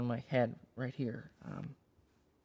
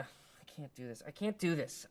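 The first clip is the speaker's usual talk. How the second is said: raised, distressed protest; pleading protest; 3 semitones higher than usual. Acted. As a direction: plead to be let off. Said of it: "moans or weeps or pleads".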